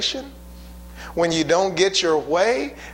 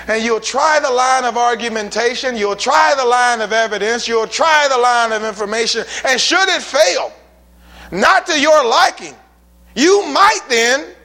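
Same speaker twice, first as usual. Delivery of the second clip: louder and higher, building to "might then"; building preaching; 4 semitones higher, 5 dB louder than usual. Real, not acted. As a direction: stack each "try" higher.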